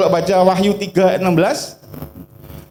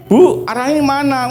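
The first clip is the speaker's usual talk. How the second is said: asking directions; 8 semitones higher than usual. Retold or imitated. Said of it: "Saya tanya sama orang Jawa-Jawa".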